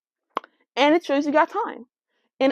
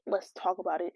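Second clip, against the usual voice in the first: announcing a title; 6 semitones lower, 11 dB quieter than usual. Shown as a demonstration. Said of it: "how about I call it".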